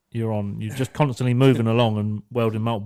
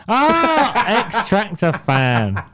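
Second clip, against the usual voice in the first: laughing; 9 semitones higher, 6 dB louder, much slower than usual. Real, not acted. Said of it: "That's shit".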